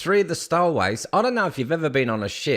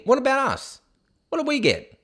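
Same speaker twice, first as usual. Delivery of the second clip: mock indignant whine; 10 semitones higher than usual. Mock outrage complaint.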